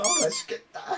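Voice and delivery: tiny, very high-pitched squeal; put-on squeaky relish; mock delight. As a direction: coo it way up high. Campy friends changing the subject.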